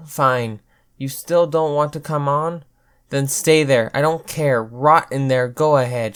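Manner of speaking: loud, fed-up shouting; angry shout. Acted. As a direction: shout her off in anger. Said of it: "she shouted".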